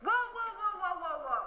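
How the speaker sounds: high, startled whoas; halting a whistler in Petrolia with a high whoa; mock alarm. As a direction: stop someone mid-whistle. Stopping someone for whistling.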